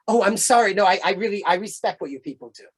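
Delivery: imitating an embarrassed apology; flustered apology. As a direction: apologize hurriedly, as if caught out. Lady's flustered apology acted out.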